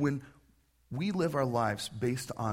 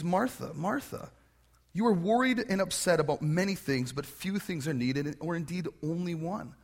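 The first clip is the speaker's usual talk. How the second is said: affectionate; 3 semitones higher than usual. Retold or imitated. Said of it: "he responds in a way of affection, endearment".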